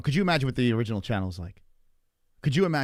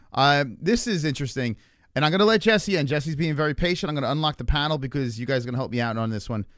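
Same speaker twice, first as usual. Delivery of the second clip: talking through a burning mouth; words around hot food; mouth full of hot food. Real, not acted. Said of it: "considering my mouth is on fire".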